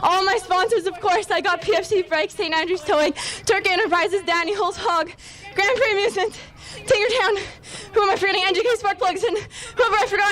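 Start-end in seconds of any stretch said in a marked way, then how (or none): 5.5-10.3 tearful. Real, not acted. Tearful thanks to sponsors.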